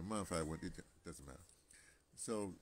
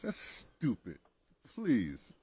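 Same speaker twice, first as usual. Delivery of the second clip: loud, raised exasperation; scornful; 4 semitones higher, 10 dB louder, much slower than usual. Real, not acted. Man scorning his t-shirt slogan, loud and exasperated. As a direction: dismiss it with loud disdain.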